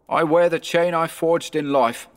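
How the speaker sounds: high-pitched ghostly lament; mournful ghost. Acted.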